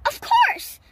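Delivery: high-pitched eureka cry; sudden realization. A narrator's reading. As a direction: pipe up as it all clicks. Katie works out the clue.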